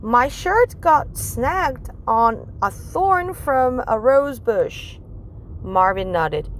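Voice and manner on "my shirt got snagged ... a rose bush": higher, slow explaining teacher. Acted. Teacher telling the class about the rose bush, slow. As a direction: explain it gently and slowly.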